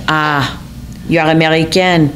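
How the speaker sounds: a hint of a French accent, faintly condescending; lightly French accent. Romeo teasing the American girl, with a light French accent. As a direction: play the charming, slightly superior French man, barely accented. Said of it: "in his alluring accent that bordered on condescension".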